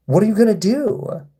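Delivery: high, goading sing-song; baiting taunt. Real, not acted. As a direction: egg him on, voice up high. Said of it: "I'm just baiting them".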